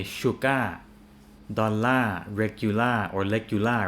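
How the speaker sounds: shuka and legula said without the final R; Thai learner endings. Retold or imitated. Teacher imitates how Thai learners say the AR endings. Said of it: "they tend to say".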